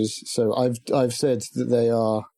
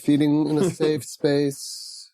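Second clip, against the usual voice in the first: hypnotist voice; much slower than usual. Pretend. Teasing hypnotist voice.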